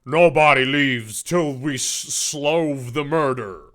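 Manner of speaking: loud, put-on voice of command; commanding character. Teresa blocking the door to the party guests, commanding. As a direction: order everyone to stay, loudly.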